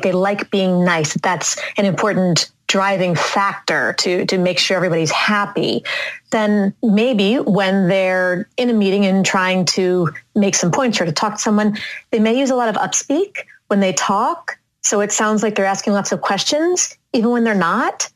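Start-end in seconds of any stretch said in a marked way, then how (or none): 6.3-18.1 rising questioning tune on every phrase; upspeak demo. Shown as a demonstration. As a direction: make statements sound like questions. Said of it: "Can you hear what I'm doing?".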